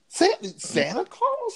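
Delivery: cracking up in disbelief; laughing at fans who booed Santa Claus. Real, not acted.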